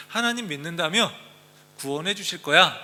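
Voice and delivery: mild mocking taunt. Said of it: "비웃고 빈정거리는".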